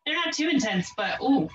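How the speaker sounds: straining mid-crunch; doing sit-ups. Real, not acted. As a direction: talk through the ab burn. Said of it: "My abs are burning".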